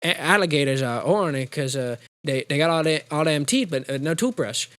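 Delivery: stammering, halting simpleton impression; Waterboy. Student answering college class, halting comic stammer. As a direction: stumble earnestly through each phrase. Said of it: "he stands up and goes".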